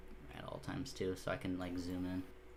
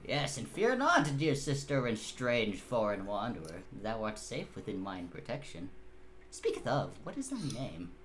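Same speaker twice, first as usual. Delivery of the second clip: archaic knight. Acted. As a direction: reassure them with mock-medieval formality. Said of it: "why are you talking like that?".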